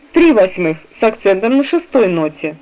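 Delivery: ordinary delivery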